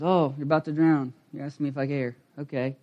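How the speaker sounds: a touch of quiet, calm reply; lightly voiced, unbothered; calm Jesus. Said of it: "He just goes".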